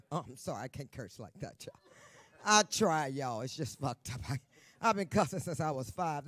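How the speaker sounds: ordinary delivery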